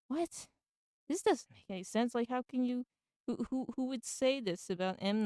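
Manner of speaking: retold disbelief. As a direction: replay being baffled by what you read. Acts out baffled reaction to tweet.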